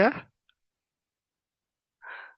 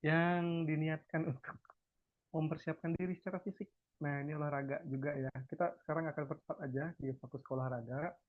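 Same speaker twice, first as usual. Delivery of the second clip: distant, off-mic voice; speaking too far from the microphone; 15 dB quieter than usual. Real, not acted. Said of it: "boleh didekatkan mikrofonnya?".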